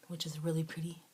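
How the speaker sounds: breathy whispered compliment. Real, not acted. Admiring the lashes, a soft whisper. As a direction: whisper it as an aside.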